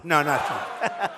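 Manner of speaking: slow, laughing no; amused, drawn-out denial. Real, not acted. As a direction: laugh your way through it. The crowd laughs at the poll joke.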